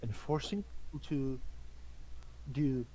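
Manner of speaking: slow, solemn leader voice; grave knight. Acted. Gaius speaks gravely to Torden.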